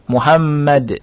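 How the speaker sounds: "Muhammad" ending on d, no -un; tanwin unread. Shown as a demonstration. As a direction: stop "Muhammad" at the final consonant. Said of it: "tidak dibaca tanwinnya".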